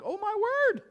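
high, loud gasp of wonder; amazed exclamation. Retold or imitated. People reacting to a changed friend, amazed and loud.

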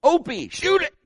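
high-pitched urgent command; urgent urging. Retold or imitated. Father prodding his frozen son to shoot, urgent.

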